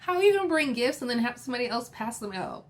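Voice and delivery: high, fast incredulous scolding; sassy retort. Retold or imitated. Vlogger scolding Sutton over gifts, high and incredulous. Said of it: "I'm like".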